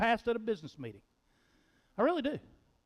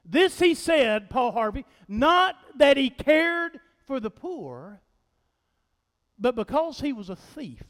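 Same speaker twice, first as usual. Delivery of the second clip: Paul Harvey impression; 2 semitones higher, 4 dB louder than usual. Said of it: "Here's the rest of the story".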